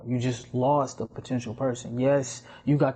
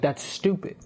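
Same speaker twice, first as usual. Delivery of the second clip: higher-pitched, put-out retelling; exasperated friend, imitated; indignant friend quote; 6 semitones higher than usual. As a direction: quote her with rising indignation. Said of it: "Literally what she said, she's like".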